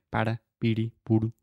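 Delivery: "para, piri, puru" with a quick tapped R; "para, piri, puru" as Portuguese sound examples. Shown as a demonstration. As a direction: tap the tongue once for each R in "para, piri, puru". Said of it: "Very similar to the Portuguese R sound".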